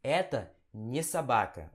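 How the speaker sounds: slow "Eta не собака" with не as nie; Russian negation demo. Shown as a demonstration. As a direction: stretch out "Eta не собака", ne clearly. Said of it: "Você fala". (demonstração lenta de "Eta не собака")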